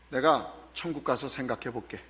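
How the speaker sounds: low, soft, hypothetical brush-off; noncommittal reply. Acted. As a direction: say it low and quiet, putting it off. Voices a noncommittal reply Jesus never gave. (낮고 조용하게 미루듯)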